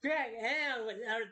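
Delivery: lightly put-on radio DJ greeting; tentative DJ hello. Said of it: "do a D J voice".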